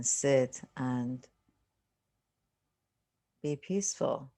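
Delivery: unhurried meditation guide, long silences between phrases; guided meditation. Real, not acted. Teacher settling listeners into a seated meditation, calm guiding voice. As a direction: ease them into stillness, phrase by phrase with long pauses.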